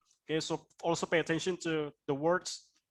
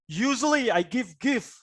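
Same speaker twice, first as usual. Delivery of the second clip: mock angry intonation. Shown as a demonstration. Teacher showing students a confusing intonation, mock angry. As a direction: demonstrate mismatched, angry-sounding intonation. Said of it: "it's like you're angry".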